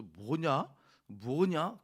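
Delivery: loud baffled what-is-this; puzzled grumble. Retold or imitated. Congregation baffled by the ending, loud puzzled grumble. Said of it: "쭉 따라오시면서".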